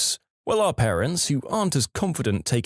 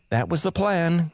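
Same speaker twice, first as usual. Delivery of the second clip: higher-pitched sarcastic reply; 5 semitones higher than usual. Acted. Brother replying to the chill skier, sarcastic. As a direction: answer with dry sarcasm, pitched up. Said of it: "my brother replies sarcastically".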